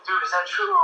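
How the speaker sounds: high, startled ask; alarmed question. Retold or imitated. Trish calling Mike, alarmed, in a high startled voice. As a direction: sound thrown by the news.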